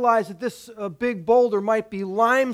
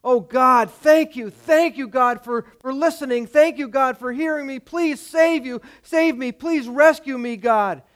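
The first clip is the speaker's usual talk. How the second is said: relieved begging; 3 semitones higher than usual. Acted. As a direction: pour out thanks and beg to be saved. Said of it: "The man replies".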